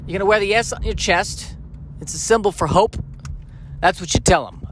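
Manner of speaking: lightly voiced New York father; a hint of a chatty New York dad; New York accent. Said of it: "with a New York accent".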